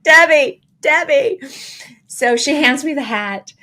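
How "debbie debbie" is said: high, loud scolding of a friend; mock exasperation. Runner chiding her downplaying friend, mock-exasperated. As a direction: call the name out twice in dramatic disbelief.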